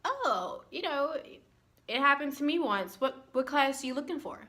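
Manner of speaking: sweet helpful teacher voice; lightly voiced cheery professor; mock kindly professor. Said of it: "the professor is like".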